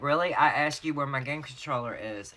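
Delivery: mildly heated mock indignation; indignant husband. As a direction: imitate a husband annoyed at being dodged. Acted quarrel, husband upset.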